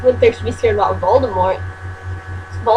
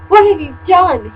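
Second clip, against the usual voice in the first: hammed-up cry, higher and louder; mock anguished cry; 7 semitones higher, 5 dB louder than usual. Reader voicing Dumbledore crying out at the band, hammed-up. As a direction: wail it like a dramatic headmaster. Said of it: "he started to cry wisely".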